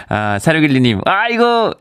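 usual speaking voice

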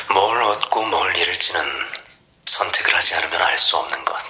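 mysterious caller. Acted. Mysterious caller tempting her.

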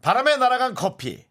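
parody news anchor. Shown as a demonstration. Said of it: "이거 한번 해주자".

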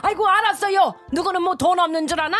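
wife snapping back at her husband, huffy and fast; indignant retort. Acted.

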